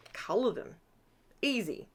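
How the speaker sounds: breathy whispered "easy"; whispered aside. Acted. Crafter jokes to viewers about an easy fix, whispering. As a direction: whisper it as a wry joke. Sarcastic aside after a problem.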